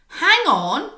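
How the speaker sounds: high, loud call to halt; witch's sudden cry. Acted. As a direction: stop everyone dead with it. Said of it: "cried the witch".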